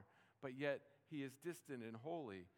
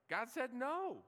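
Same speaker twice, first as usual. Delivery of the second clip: emphatic punchline; 10 semitones higher, 5 dB louder, slower than usual. Real, not acted. Blunt punchline after the scripture.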